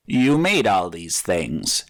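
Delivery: slow, easy creature voice; a gargoyle chatting almost friendly; conversational. A narrator's reading. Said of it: "now more conversationally".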